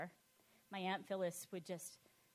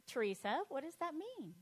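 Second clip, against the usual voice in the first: mimicking her aunt; 7 semitones higher than usual. Aunt voiced asking.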